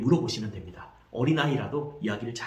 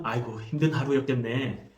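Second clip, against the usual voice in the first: sympathetic. Shown as a demonstration. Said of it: "그렇게 공감해주면 되는 것입니다".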